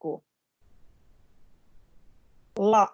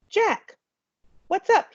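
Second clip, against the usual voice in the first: lightly voiced boy, higher, easygoing; a cool kid saying hey; casual boy greeting; 9 semitones higher, slower than usual. A narrator's reading. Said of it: "he said".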